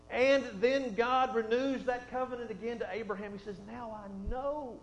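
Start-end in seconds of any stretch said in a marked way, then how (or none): 3.7-4.8 slow, weighty, falling at the end; slow voice of God. Acted. God declares to Abraham, slow and solemn. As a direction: stretch each word like a solemn verdict. God speaks after the test.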